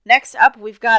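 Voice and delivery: loud, over-the-top radio announcer; hammed-up manic announcer kicking off the segment; maniac announcer voice. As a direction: belt it like a manic game-show host. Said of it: "do I have to do this voice? I sound like a maniac".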